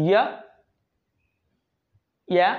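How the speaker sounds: "ইয়া" as a brief open "ya"; short A sound. Shown as a demonstration. Teacher showing the short sound of A, brief and open. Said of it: "short sound হলো".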